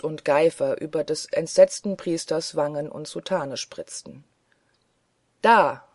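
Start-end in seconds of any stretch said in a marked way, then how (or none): 5.4-5.8 loud burst on one word; bellowed jeer; roared out. A narrator's reading. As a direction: fling it out in savage triumph. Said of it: "brüllte ein fürchterliches Gelächter".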